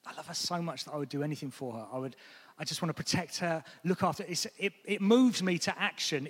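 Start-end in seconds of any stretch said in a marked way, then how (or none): 0.1-4.3 quiet tender devotion. Shown as a demonstration. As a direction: speak of her gently. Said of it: "if I say".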